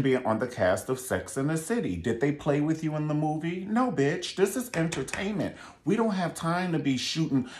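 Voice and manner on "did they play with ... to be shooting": mock producer. Mock producer scolding cast.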